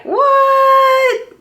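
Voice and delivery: very high, loud shocked what; shocked viewers. Retold or imitated. Vlogger voicing viewers shocked by her favorite pick. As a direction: yelp it like a stunned viewer. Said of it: "you guys are probably like".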